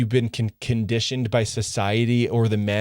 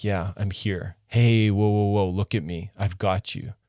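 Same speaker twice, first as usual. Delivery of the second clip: reassuring. Shown as a demonstration. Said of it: "look into her eyes and be like".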